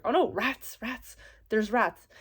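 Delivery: hammed-up alarm at the word rats; mock panic. Tenant spotting rat traps, telling her host, in mock panic.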